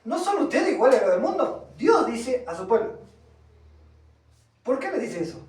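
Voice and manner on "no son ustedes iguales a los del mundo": faster rephrasing. Shown as a demonstration. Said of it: "Para que entiendan ahora, les voy a hablar".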